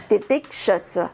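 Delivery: "तितिक्षस्व" in two parts, titik and shasva; अलग करके. Shown as a demonstration. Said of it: "अलग कर देना इसको". ("तितिक्षस्व" को दो हिस्सों में बोलें)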